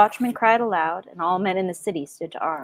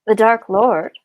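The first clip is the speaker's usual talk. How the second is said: terrified cry; 2 semitones higher, 7 dB louder, slower than usual. Acted. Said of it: "cried Pippin, forgetting his place in his terror".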